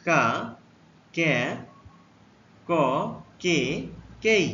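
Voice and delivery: কা, কে, ক, কে, কেই said one by one, slow and clear; teacher modelling কা কে ক কে কেই; letter sounds demo. Shown as a demonstration. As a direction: model কা কে ক কে কেই with a pause after each. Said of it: "সি এ".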